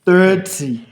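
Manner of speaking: high, slow put-on voice haggling over the time; mock casual. Imitating himself stalling the barber, high and slow. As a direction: stretch it out in a teasing voice. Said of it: "I'm like".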